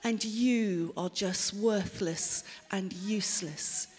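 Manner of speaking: mild haughty contempt; smug superiority. Acted. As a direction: look down your nose at them. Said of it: "And then I start to think".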